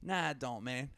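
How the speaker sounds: reluctant refusal. Retold or imitated. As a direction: decline softly, retelling the moment. Client declines pushy trainer.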